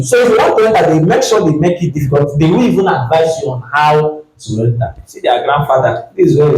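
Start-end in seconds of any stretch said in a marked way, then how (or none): 0.0-2.4 rising, pressing preacher's rebuke; heated. Real, not acted. Preacher rebuking the Pharisees, rising and pressing. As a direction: drive it home against the hypocrites.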